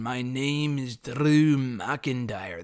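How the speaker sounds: very slow, one-note wrestler promo voice; monotone Drew McIntyre imitation. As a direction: mimic a stiff, monotone promo. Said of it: "he talked very monotone".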